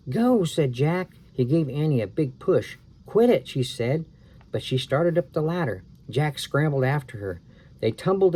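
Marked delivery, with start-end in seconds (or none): 0.1-0.4 loud, high command; urgent yell. Acted. Boy pushing sister up ladder, loud. Jack pushes. 3.0-3.5 loud, high complaint; annoyed protest. Acted. Sister pushed by brother, loud annoyed. Annie resisting push.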